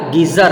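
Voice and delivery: गीजर with z in place of j; nukta pronunciation. Shown as a demonstration. Teacher repeats nukta word, गीजर with z. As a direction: say गीजर as "geezar". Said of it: "नुक्ता ज पर लगाने से".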